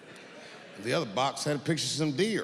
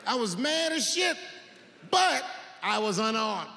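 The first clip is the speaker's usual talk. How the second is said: ordinary delivery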